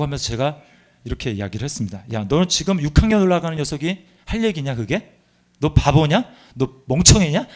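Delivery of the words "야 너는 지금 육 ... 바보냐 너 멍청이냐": retold yell. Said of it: "내가 이렇게 소리를 질렀어요".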